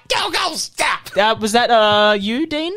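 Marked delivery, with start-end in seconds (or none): 0.1-1.1 shouted jingle. Pretend. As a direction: belt the jingle out slowly. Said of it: "give us the jingle again".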